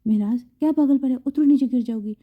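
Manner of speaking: loud, alarmed angry call; angry shout. Acted. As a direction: shout at her to get down. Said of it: "وہ غصے میں کہنے لگا".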